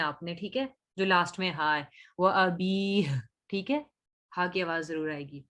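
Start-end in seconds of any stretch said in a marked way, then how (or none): 2.2-3.2 अबीह with the last ha sounded clearly; clear final ha. Shown as a demonstration. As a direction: make the ha at the end of अबीह heard. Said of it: "हा की आवाजें prominent रखनी है".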